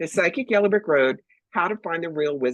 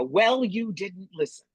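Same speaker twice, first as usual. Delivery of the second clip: slow dry retort; 4 semitones higher, slower than usual. Retold or imitated. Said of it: "And I go".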